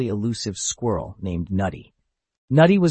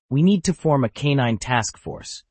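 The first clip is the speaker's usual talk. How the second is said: declaring; 4 semitones higher than usual. Acted. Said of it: "Trixie declared".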